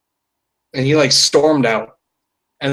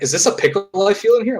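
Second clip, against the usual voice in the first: suspicious customer; 8 semitones higher, faster than usual. Retold or imitated. Voices complaining sandwich customer.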